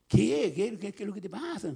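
startled, stammered questioning; baffled questioning. Retold or imitated. Playmate asking the shouting boy what is wrong, baffled.

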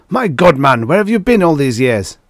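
loud, high astonished outburst; howling. A narrator's reading. General to long-lost Adams, howling. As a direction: howl it in amazed reproach. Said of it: "howled the general".

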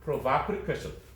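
Provocative slowly, stressed on VOC; shifted stress. Shown as a demonstration. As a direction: show the moved stress in pro-VOC-ative question. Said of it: "발음이 강세가 바뀌어서 발음도 바뀌었어요".

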